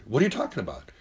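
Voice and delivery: confused clients. Retold or imitated. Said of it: "they always have that strong".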